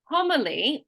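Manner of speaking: homily with HOM stressed; stress on first syllable. Shown as a demonstration. Teacher showing a learner syllable stress, homily stressed on HOM. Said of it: "we're gonna emphasize that first syllable".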